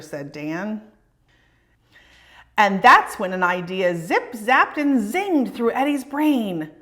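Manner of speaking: put-on lively read-aloud for children; storybook reading. A narrator's reading. Reading a picture book aloud.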